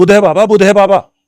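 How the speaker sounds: very loud, venomous, poison-laced delivery. Recounting answering Baba's question, retelling a loud venomous reply. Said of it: "लहजे में कुछ जहर मिलाकर ... जोर से बोला".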